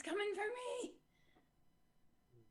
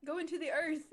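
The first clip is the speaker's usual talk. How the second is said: goblin voice; 2 semitones higher, 3 dB louder than usual. Acted. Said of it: "what's the goblin voice for".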